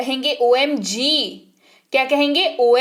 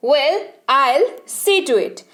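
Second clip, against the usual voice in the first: slow, drawn-out well; slow well I'll see; reluctant okay; much slower than usual. Shown as a demonstration. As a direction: agree with mild reluctance. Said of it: "कहेंगे well".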